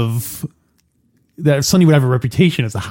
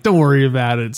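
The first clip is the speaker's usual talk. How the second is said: mild brush-off in a usual pitch; dismissive. Acted. Explaining the cop's line to co-host, mildly dismissive. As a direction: lightly wave the worry away. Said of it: "like a dismissive kind of like".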